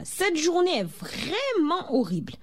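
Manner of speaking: high-pitched exasperated outburst; child bursting out in complaint; exploding. A narrator's reading. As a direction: let the frustration burst out, high but not shouted. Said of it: "haussa les épaules et explosa".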